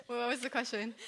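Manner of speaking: laughing while asking; can't stop giggling; trying not to laugh. Real, not acted. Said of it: "now it's making me laugh".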